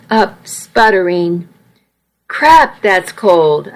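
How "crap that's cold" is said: gasping from icy water. Acted. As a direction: gasp the words out, shocked by cold. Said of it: "I gasped".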